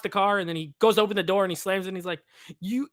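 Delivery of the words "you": imitating a silly French accent, loud and high; mock French accent. Friend mimicking Steve Martin's French inspector, loud French accent. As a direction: belt it out in an over-the-top French accent. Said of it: "the way he says "pull up" ... with the French accent".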